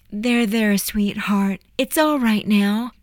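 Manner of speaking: soothing mother, slightly high; tender, smiling motherly voice; warm reassurance. Acted. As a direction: comfort a child with a smile in the voice. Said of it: "she said, offering a warm smile".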